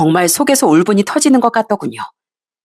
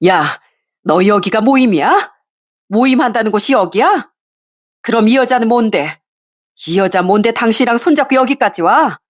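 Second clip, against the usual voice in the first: raised, accusing wife's voice; angry confrontation; 3 semitones higher than usual. Acted. Wife confronting her cheating husband, voice rising in anger. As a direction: demand answers, pitch climbing.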